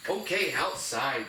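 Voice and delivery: "outside" stretched slowly for the dog; emphasis on OUTSIDE. Shown as a demonstration. Trainer teaching dog the door cue, "outside" slow and emphasized. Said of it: "I'm gonna emphasize the word outside".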